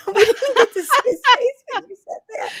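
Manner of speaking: said through real laughter; laughing. Real, not acted. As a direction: chuckle all the way through the line. Laughing about the cracker joke.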